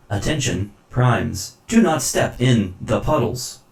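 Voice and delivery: robotic announcement voice; mechanical voice. Acted. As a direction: stiff machine announcer. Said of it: "a mechanical voice calls out".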